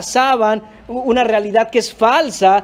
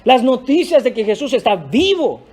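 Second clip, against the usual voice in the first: raised, eager calling out of good news; joyful Mary. Acted. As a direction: run in shouting the news. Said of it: "ella fue corriendo a decir".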